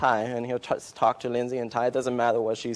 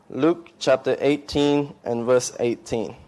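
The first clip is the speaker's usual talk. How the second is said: slow, deliberate; slower than usual. Shown as a demonstration.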